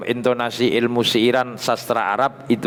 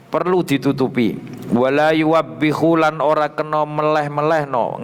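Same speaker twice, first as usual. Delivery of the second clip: raised, chanting read of Arabic text with Javanese gloss; kitab recitation; 3 semitones higher than usual. Acted. Teacher reading the kitab aloud to students, raised chant-like recitation. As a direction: intone each phrase then gloss it.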